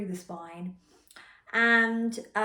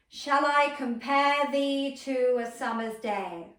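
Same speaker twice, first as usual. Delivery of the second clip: louder, higher and slow, sent to a far corner; projected to the room; 6 semitones higher, 8 dB louder, slower than usual. Shown as a demonstration. Coach sending the line to a corner, projected loud. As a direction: throw the line across the room. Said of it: "send that line of text to that point".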